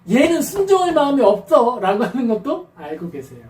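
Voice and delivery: ordinary talk, nothing marked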